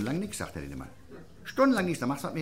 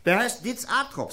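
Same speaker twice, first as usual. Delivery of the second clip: slow announcing; 10 semitones higher, 4 dB louder, slower than usual. Retold or imitated. Barkeeper announcing a name.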